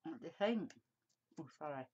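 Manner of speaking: talking around a pen in the mouth; mumbled with a pen between the teeth. Real, not acted. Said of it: "Got pen in my mouth".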